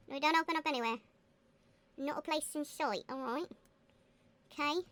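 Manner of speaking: light put-on Cockney; a touch of playful Cockney; Cockney accent. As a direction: slip into a Cockney accent while playing. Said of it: "I've turned into a Cockney accent".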